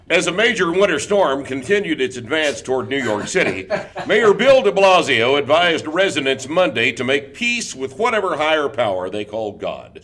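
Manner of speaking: grave, overblown newsreader; doom-laden news read; mock news bulletin. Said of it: "the accent used by those on high".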